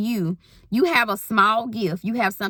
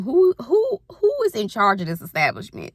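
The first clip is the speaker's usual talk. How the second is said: a hammed-up demand for whoever is in charge; mock calling out; 2 semitones higher, 3 dB louder than usual. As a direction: call out for the manager.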